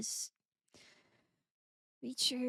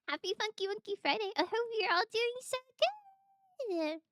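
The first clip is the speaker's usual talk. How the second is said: excited; 9 semitones higher, 5 dB louder, faster than usual. Real, not acted. Excited stream greeting.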